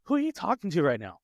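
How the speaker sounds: high, incredulous what-did-you-say; mock outraged dad; indignant disbelief. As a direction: act stunned by the backtalk. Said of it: "And I'm like".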